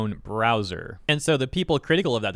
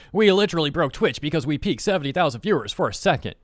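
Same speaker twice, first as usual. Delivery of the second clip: all caps voice; 5 semitones higher than usual. Pretend. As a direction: read it like it's in all caps. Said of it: "that is my all caps voice".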